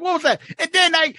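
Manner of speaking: high, shocked question; aghast. Retold or imitated. Eddie aghast at Leno's joke, high. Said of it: "It's like".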